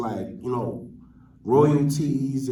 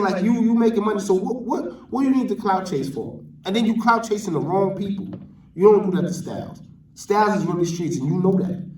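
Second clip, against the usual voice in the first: real indignant scolding, pitched up; heated rant; 4 semitones higher than usual. Real, not acted. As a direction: defend him like it's personal, voice raised. Scolding the vlogger Hassan.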